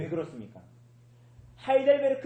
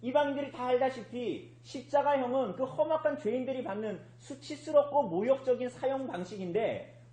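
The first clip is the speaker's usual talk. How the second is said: normal talking voice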